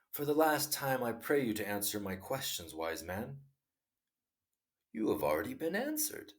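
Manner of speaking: measured storytelling read; story narration. A narrator's reading. Narrator reading a Tolstoy tale to listeners, measured storytelling. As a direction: read the tale aloud, unhurried.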